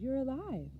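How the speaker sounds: high cry, soaring in relief; joyful shout. A narrator's reading. Boy to the father he feared had died, joyful shout. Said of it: "I shouted".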